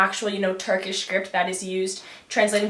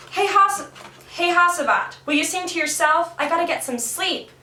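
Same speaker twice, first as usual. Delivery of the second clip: annoyed Karagos; 8 semitones higher than usual. Acted. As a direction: complain to the singer so you can sleep. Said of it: "Karagos wants to sleep".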